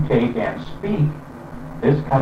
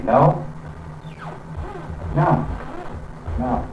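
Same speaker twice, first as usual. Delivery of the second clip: each no dropping down, closed off; falling ending; 13 semitones higher, 6 dB quieter, slower than usual. Retold or imitated. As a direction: mimic the mainland's downward no. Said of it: "And over here they say".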